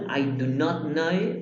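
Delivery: slow, careful full form. Shown as a demonstration. Teacher modelling the full form slowly. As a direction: spell out each word slowly for the class. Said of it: "Aquí tenemos en la forma full".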